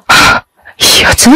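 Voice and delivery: slow breathless whisper; stunned whisper. A narrator's reading. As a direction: breathe it out in disbelief, slowly. Stunned recognition of old rival.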